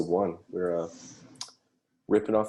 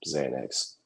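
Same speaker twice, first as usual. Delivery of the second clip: deadpan answer; 3 semitones lower than usual. Acted. Punchline answer to mock parent question.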